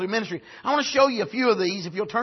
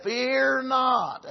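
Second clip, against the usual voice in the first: "Fear not." said softer, gently falling; tender; 5 dB quieter than usual. Retold or imitated. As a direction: comfort him softly with fear not. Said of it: "No, he just said".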